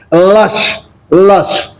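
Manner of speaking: "lush" with the short a-sound "uh" for U; teacher demonstrating "lush" with U as a short a. Shown as a demonstration. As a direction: say "lush" with U like the a in "but". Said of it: "A sound".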